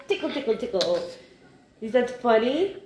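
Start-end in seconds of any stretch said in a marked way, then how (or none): 0.1-1.1 playful tickling voice. Pretend. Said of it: "it's funny when Mommy goes".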